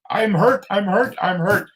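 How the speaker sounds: high, strained repeated cry, retold; mock crowd scream. A hundred and seventy-two men at the conference crying out, retold high and strained. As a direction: echo the men crying out their pain. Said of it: "men screaming out".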